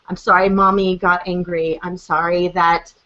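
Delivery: put-on low, understated sincere apology to a child; mildly tender, retold apology; heartfelt apology. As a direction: apologize gently and mean it. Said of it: "it's a heartfelt moment".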